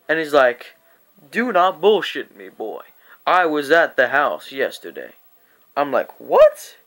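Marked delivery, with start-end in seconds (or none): 1.3-5.1 a hint of a scolding father, louder; firm retold telling-off; lightly voiced stern dad. Cousin's dad catching him lying, stern. 6.2-6.8 high, loud yelp of mock disbelief; shocked. Caught out by the dad, shocked.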